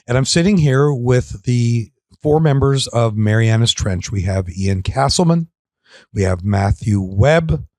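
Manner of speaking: like a calm sleep story; spa voice. Real, not acted. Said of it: "laughing at your spa voice".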